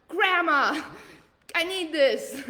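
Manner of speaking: laughing mock plea to grandma, high and loud; half-joking plea for cash; mock pleading. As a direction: beg grandma for money while laughing.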